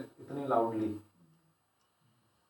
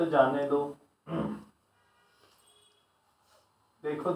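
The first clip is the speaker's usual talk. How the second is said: short instructions with long pauses between; guided meditation. Shown as a demonstration. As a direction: guide listeners to let thoughts pass, phrase by phrase. Guides a short thought-watching exercise. (ठहर-ठहर कर ध्यान का निर्देश)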